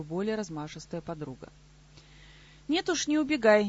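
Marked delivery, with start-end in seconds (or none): 2.7-3.7 loud, higher, hard-edged order; harsh aggressive demand. A narrator's reading. Камила to Плакса, who tries to flee: loud harsh demand. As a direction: grab him and refuse to let go. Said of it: "неожиданно агрессивно и жёстко потребовала Камила".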